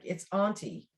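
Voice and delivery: "auntie" with a broad AH; ahntie pronunciation. Retold or imitated. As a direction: say "auntie" as AHN-tee. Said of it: "my sister-in-law was like".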